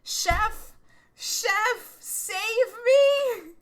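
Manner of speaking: high, loud cries for rescue; calling for help. Pretend. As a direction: shout across to the chef, mock desperate.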